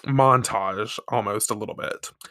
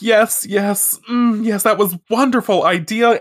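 higher, louder gushing put-on voice; gushing villain director; 9 semitones higher, 4 dB louder than usual. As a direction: praise the actor theatrically. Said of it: "she's like".

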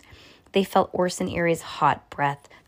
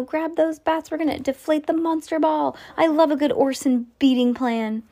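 eager cry; 9 semitones higher than usual. Acted. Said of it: "cried Antonio".

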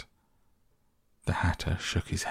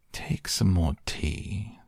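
earnest; slower than usual. Acted. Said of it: "very earnestly".

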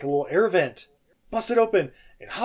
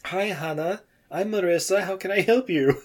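imitating a bad southern accent, gently; mock southern accent; 3 semitones higher than usual. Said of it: "fake Marissa's accent that they're doing".

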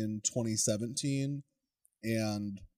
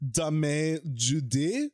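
slow mock pun; 4 semitones higher, 3 dB louder, much slower than usual. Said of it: "echoes the pun".

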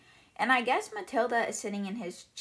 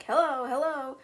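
lightly voiced bird call, higher; a hint of a parrot calling out; 4 semitones higher, 4 dB louder than usual. Bird calls down from the chimney, lightly mimicked parrot. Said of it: "the bird is calling down".

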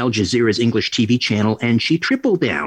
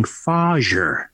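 put-on Dutch accent. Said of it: "He has this wonderful Dutch accent".

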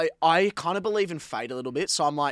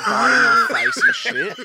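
laughing shout; 9 dB louder, slower than usual. Real, not acted. Puppies biting his face.

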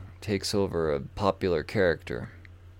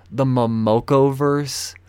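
slow scornful; 3 semitones higher, 4 dB louder, slower than usual. Real, not acted. Scornful repeat of the phrase.

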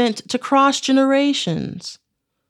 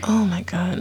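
whispered; 5 semitones lower than usual. Real, not acted. Shocked she doesn't know a singer.

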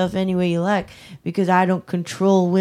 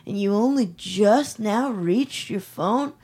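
higher, worried, soothing; concerned phone voice; 3 semitones higher than usual. Pretend. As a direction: fuss over her like a worried boyfriend. Concerned fake phone call.

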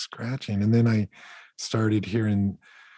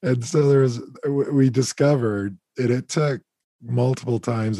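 higher, louder, still amused after a laugh; 4 semitones higher, 5 dB louder than usual. Real, not acted. Telling his raccoon discovery, laughing. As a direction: talk on through real laughter. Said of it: "and I'm laughing because".

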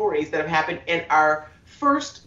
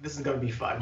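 flat, soft, dreading tone; deadpan dread; 5 semitones lower, 8 dB quieter, much faster than usual. Retold or imitated. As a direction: say it like you don't believe it. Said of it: "you're like".

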